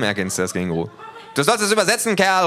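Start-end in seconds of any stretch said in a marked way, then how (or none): 1.4-2.5 high, loud shout; little thug yells an order; calling loudly. A narrator's reading. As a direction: yell it at him. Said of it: "ruft der Kleine".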